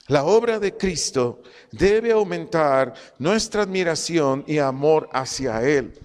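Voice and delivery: slow, deliberate stress on obra; slow emphatic repetition. Shown as a demonstration. Preacher drives home the main point, slow emphatic stress. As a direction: lean on obra and amor slowly.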